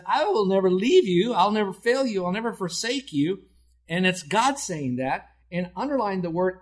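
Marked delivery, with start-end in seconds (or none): 0.0-3.4 higher and louder, proclaiming each never; booming proclamation. Acted. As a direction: declare it like a promise from the pulpit. Preacher proclaims God's promise.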